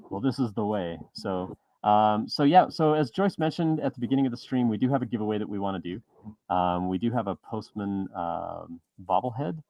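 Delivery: muffled behind a visor; inside a helmet. Real, not acted. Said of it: "It is actually a little bit hard to hear you".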